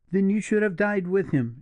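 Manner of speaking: high, heated accusing cry; reproachful cry. A narrator's reading. Julia reproaching the partisan, heated high cry. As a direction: fling the words at him heedlessly. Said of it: "she cried".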